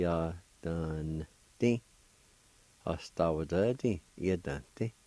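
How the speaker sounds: syllable by syllable Cherokee. Shown as a demonstration. Teacher repeating Cherokee syllables for students. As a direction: say each Cherokee syllable apart. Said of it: "it's pronounced like this".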